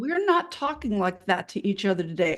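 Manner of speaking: lightly voiced firm talk to a toddler. Nurse standing up to bullying surgeons, mildly patronizing firmness. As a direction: calmly set a limit, as if to a small child. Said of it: "sounds like you're talking to a toddler".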